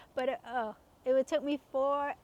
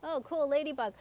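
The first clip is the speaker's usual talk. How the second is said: put-on breezy kid delight; 3 semitones higher than usual. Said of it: "and I was like".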